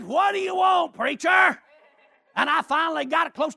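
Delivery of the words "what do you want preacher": challenging shout. Retold or imitated. Dixon turns, hands on hips.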